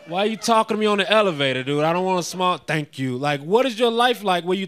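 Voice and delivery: half-shouted disbelief at a polite stranger; exasperated retort. Retold or imitated. To the elevator guy, a hammed-up indignant rant. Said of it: "And I was like".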